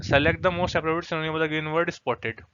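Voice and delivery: very slow, deliberate reading of the question; slow read-aloud. Shown as a demonstration. Teacher slowly reading the exam question to students. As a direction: spell out the question word by word.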